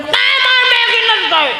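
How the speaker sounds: put-on very high, drawn-out childish whine; hammed-up spoilt kid refusing food; whining child. Child turning down mother's Maggi, whining.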